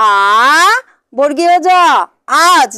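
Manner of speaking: long held আ, then বর্গীয় জ, then joined as আজ; teacher sounding out আজ letter by letter; spelling aloud. Shown as a demonstration. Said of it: "বানান করে, উচ্চারণ করে".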